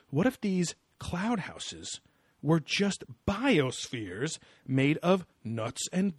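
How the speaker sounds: slow, drawn-out mock wondering; lightly voiced TV theorist, stretching each phrase; imitated show presenter. Co-host retelling the presenter's cloud house theory, mock-portentous.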